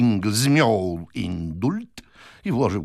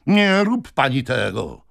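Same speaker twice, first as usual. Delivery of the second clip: slow, raised, louder plea; urgent cry; 6 semitones higher, 5 dB louder, slower than usual. A narrator's reading. Suitor urges the lady not to obey, crying out. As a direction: call out to stop her, drawn out. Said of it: "zawołał Jingle".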